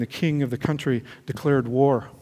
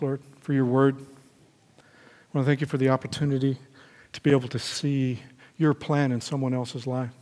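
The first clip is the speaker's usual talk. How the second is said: prayer. Acted. Closing prayer.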